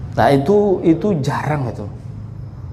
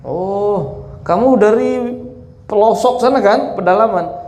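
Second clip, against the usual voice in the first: higher, sing-song teasing of a country bumpkin; mocking townsman; 6 semitones higher than usual. Meccan teasing the village pilgrim, mock pity. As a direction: pretend to pity the villager, pitched up.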